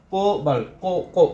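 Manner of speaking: কোবাল্ট, then কো alone twice to show the o; syllable sounded out. Shown as a demonstration. Teacher showing the second letter of cobalt, কো isolated. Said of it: "ও আসে, উচ্চারণটা কি আসে?".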